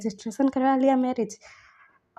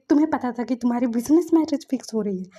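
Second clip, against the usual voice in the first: louder, sharp accusing question; angry accusation; 7 dB louder than usual. Retold or imitated. Wife confronting husband about the secret marriage, angry. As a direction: call him out for hiding it.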